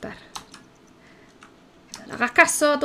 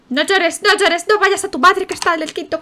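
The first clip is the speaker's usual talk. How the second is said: scolding carer voice; 6 semitones higher, 6 dB louder than usual. Acted. Habla a la niña del juego.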